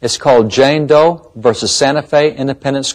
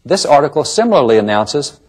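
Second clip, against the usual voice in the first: ordinary talk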